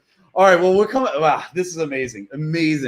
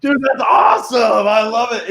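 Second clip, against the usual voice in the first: excited; 5 semitones higher, 4 dB louder, slower than usual. Real, not acted. Host thrilled after the shout.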